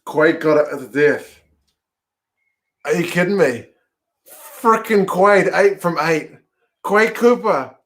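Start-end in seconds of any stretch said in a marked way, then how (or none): 2.8-7.8 elated cheer. Real, not acted. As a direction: celebrate the winning kick. Kick goes over, fan celebrates.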